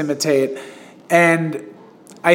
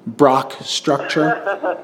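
slow, dramatic trailer voice on "Brock Structure"; movie-star name drawl; 3 dB quieter, much slower than usual. Shown as a demonstration. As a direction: announce "Brock Structure" like a film title, stretched. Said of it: "his name would be Brock Structure".

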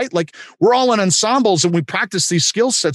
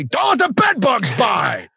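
playful call, higher and slow; mock yell; 6 semitones higher, slower than usual. Pacino yelling back a bedtime rhyme from his car, playful mock shout. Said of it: "And he yelled at me".

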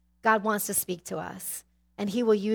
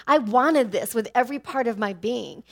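loud, higher, pleading insistence; passionate insistence; 3 semitones higher, 7 dB louder than usual. Real, not acted. Telling the congregation how badly she wanted him, loud and high. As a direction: pour out the wanting, loud and high.

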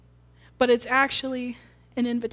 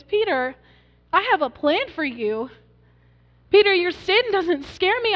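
bright, higher, smiling reassurance with a lift; 4 semitones higher, 3 dB louder than usual. Acted. Jesus smiling at frightened Peter, reassuring and higher. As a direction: let Jesus beam at Peter as he comforts him. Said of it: "can you hear the smile in Jesus' voice".

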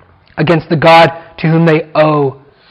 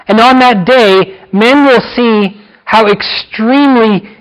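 higher and slower, building intensity; rising fervor; 3 semitones higher, slower than usual. Real, not acted. Preacher warning the church of judgment, slow and urgent. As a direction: lift the congregation with growing urgency.

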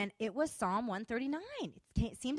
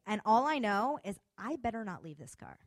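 ordinary talk

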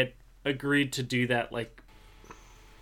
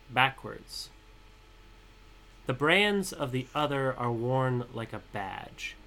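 poem reading. Acted. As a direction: read the poem with weight, letting each word land. Reads his own poem aloud.

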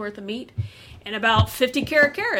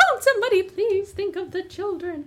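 higher, pleading, scandalised church-lady wail; Helen Lovejoy; 9 semitones higher than usual. Retold or imitated. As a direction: clutch your pearls and beg for the children. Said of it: "Helen Lovejoy".

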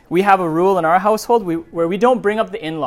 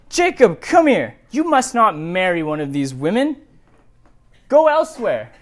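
calling out. Acted. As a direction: summon your son across the tent. Isaac calling Jacob over.

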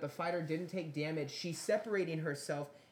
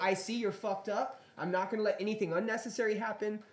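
referee voice; 7 semitones higher, 3 dB louder than usual. Retold or imitated. Voicing referee's thoughts.

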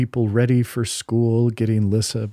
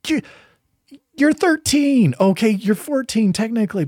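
incredulous, high and loud; 12 semitones higher, 3 dB louder than usual. Retold or imitated. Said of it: "I'm like".

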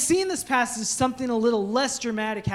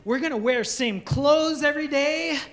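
imagined excitement; 4 semitones higher than usual. Retold or imitated. Pastor recalls his dreams of fatherhood, excited and building. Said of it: "I thought".

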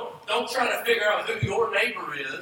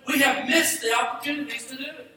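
preaching shout; 5 semitones higher, faster than usual. Real, not acted. Preacher scolds congregation for missed chances, shouting.

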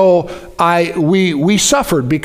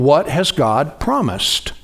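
slowed, weighted question; slow emphatic question; 3 semitones lower, 3 dB quieter, slower than usual. Shown as a demonstration. Preacher posing the key question to the congregation, slow. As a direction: lean into each word of What has God promised. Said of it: "always ask yourself the question".

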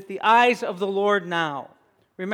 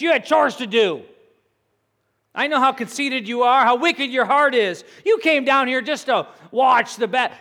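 acted scolding, growing higher and louder; angry older brother; 3 semitones higher, 3 dB louder than usual. Older brother scolding David for coming to the battle, angry. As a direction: voice an irritated big brother telling someone off. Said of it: "he burned with anger and says".

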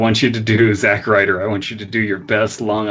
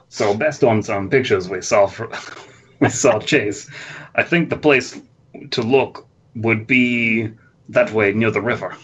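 halting, lightly voiced wrestler character; cartoon voice drifting into a wrestler's halting speech; Razor Ramon. Shooter suggesting where to look, drifting toward Razor Ramon. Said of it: "starting to transition from Strong Bad to Razor Ramon".

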